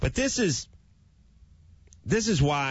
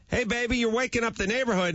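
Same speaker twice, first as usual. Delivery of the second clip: sweet scolding to dog; 11 semitones higher than usual. Retold or imitated. Owner scolding dog softly.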